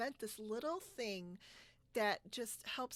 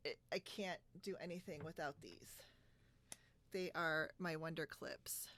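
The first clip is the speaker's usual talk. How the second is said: whispered; 4 semitones lower, 5 dB quieter than usual. Real, not acted. Showing favorite clips on camera.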